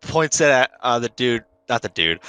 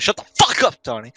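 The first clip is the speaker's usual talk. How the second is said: much higher, yelled line; a hammed-up shout; mock yell; 3 semitones higher than usual. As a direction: yell it at the top of the lungs. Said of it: "he actually yells".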